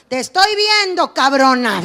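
mother's scolding call. Retold or imitated. Comedian playing her mother calling out from the stove. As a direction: bark it like a mom with eyes in the back of her head. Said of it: "mi mamá aquí, de espaldas".

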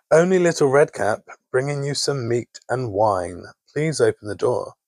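wolf pretending to be a child; wolf faking Redcap. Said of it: "answered the wolf".

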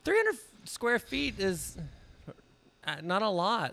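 high incredulous stretched three hundred; mock disbelief. Real, not acted. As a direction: squeak it out in disbelief. Mock shock at tiny flat.

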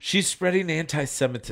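put-on grumbling old man line; a hint of an old Jewish man. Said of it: "Whoa, your voice totally changed".

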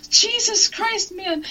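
loud, slow, high exclamation; exasperated. Real, not acted. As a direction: drag it out in disbelief. Exasperated after retching again.

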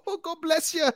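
high, loud hammed-up Liverpool accent; over-the-top Liverpool accent; mock Scouse accent. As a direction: play a silly Scouser. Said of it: "In British accents".

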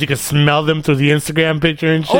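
understated impression of a friend. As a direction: slip into your buddy's voice. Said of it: "best A B impression I've ever seen".

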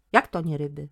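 loud, offended retort; a bristling old man objects; indignant. Acted. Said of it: "Pan jednak się obruszył".

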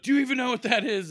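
high, loud, rapid scolding, imitated; mock indignation. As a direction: fire it off like an outraged stepdad. Retelling stepdad outraged at an insult.

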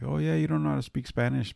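high-pitched mock agreement; teasing mimicry. Friend bringing up his claim of no Spanish, teasing mimicry.

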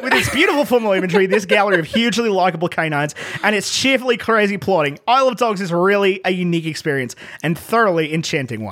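the review again in a laughing, bad Australian accent; awful Australian accent. Rereading the critic's review as Tyler would, awful Australian accent. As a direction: fake Aussie twang, barely holding it together. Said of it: "truly awful Australian accent".

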